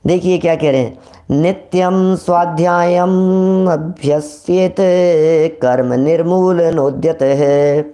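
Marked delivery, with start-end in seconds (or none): 1.3-7.8 slow, deliberate Sanskrit chant; slow chanted reading of a Sanskrit verse; scripture recitation. Shown as a demonstration. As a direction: intone each word of the verse carefully. Reads Sanskrit verse from text.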